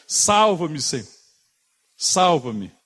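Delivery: loud, high scream for rescue; desperate shout. Shown as a demonstration. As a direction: cry out as if drowning. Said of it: "É um grito, irmão". (grito alto de socorro)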